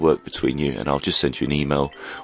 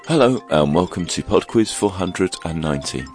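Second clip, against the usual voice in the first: croaky voice. Real, not acted. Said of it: "hence the croaky voice".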